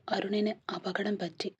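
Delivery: slow, whispered and shaken; troubled voice. Acted. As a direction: breathe it out slowly, close to tears. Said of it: "കലങ്ങിയ ശബ്ദത്തിൽ അവൾ വിളിച്ചു". (കലങ്ങിയ ശബ്ദത്തിൽ പതുക്കെ മന്ത്രിച്ച്)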